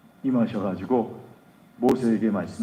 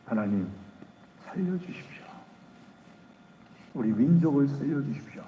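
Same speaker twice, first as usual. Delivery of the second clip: much softer, hushed begging; desperate plea; 6 dB quieter than usual. Acted. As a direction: plead for mercy on your knees. Moses prostrate begging for mercy.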